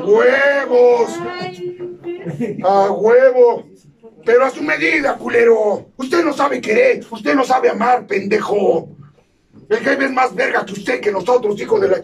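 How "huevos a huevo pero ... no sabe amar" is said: loud, slow defiant yell; defiant shout. Acted. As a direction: bellow it out as a challenge. Grito de desafío. (grito desafiante y lento)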